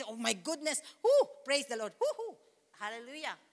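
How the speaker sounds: breathy whoops of delight, then a soft hallelujah; carried away by God's presence; excited praise. Retold or imitated. Pastor acting out joy in worship, excited whoops. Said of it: "When you experience".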